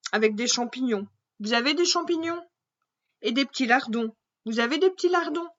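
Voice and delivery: a touch of a gourmand princess; hungry princess. Acted. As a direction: ask greedily for the trimmings.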